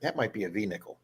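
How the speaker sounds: low, hushed retold thought; reluctant guess. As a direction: say it softly, as if reluctant to admit it. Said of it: "I hate to say this".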